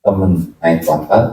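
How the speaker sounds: slow spelled acronym. Shown as a demonstration. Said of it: "Tahu dengki?".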